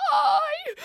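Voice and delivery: put-on high little baby voice; imitating a baby. Nurse mimicking baby Juliet's answer, high and small. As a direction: pipe it like a small child. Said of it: "and say".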